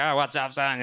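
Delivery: badly faked rural Pennsylvania accent; terrible Pennsylvania accent. Student imitates camo-wearing host dad, mild bad Pennsylvania accent. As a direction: lightly put on a bad Pennsylvania country accent. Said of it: "that's a terrible accent".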